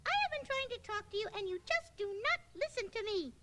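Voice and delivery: angry. Acted. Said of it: "I sound angry because I am angry".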